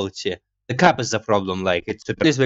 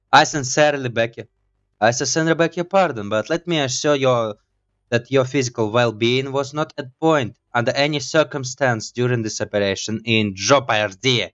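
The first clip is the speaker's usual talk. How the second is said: lightly voiced educated gentleman; intellectual voice. Gamer voicing Eugen, lightly voiced intellectual tone. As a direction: sound brainy and formal, barely changed. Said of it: "my regular voice with the sound of intellect".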